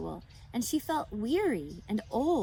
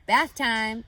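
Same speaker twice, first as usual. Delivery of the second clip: louder, cheerful call; 2 semitones higher, 8 dB louder than usual. A narrator's reading. Mr Zuckerman cheerfully calling bath time for Wilbur, a bright loud call. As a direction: announce it with glee. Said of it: "said Zuckerman cheerfully".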